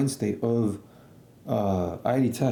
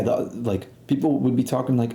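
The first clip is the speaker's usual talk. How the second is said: ordinary delivery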